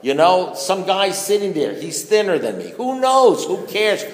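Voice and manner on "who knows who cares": high loud outburst; exasperated comic shout. Real, not acted. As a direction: throw up your hands, pitched way up.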